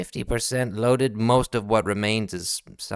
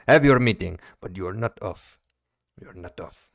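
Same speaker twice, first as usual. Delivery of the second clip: ominous captain; 3 semitones lower than usual. Acted. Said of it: "He goes".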